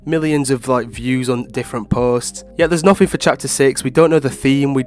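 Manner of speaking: stuffy, congested voice; blocked nose. Real, not acted. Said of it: "sounds like someone's holding my nose".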